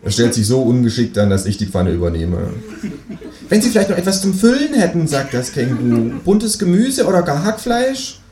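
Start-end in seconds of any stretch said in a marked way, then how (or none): 3.5-5.1 kangaroo voice. Acted. Känguru spricht, hohe Stimme. 6.2-8.2 kangaroo voice. Acted. Känguru spricht, hohe Stimme.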